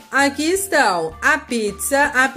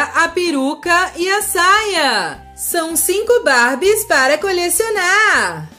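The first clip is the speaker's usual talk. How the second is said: higher, louder and excited; 5 semitones higher, 3 dB louder than usual. Real, not acted. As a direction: build up the excitement. Excited listing of surprises.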